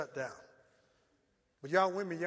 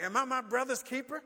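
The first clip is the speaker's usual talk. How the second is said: sarcastic; 5 semitones higher than usual. Acted. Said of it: "He got sarcastic".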